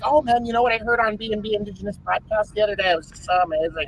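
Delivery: put-on Valley girl. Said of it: "talk like a Valley girl".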